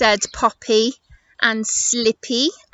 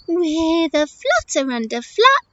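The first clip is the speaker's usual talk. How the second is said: higher, perky bird with little breaks; chirpy parrot; 6 semitones higher, 3 dB louder, slower than usual. Acted. Parrot answering how she'll pass rocks, perky. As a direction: pop each action out higher, separately.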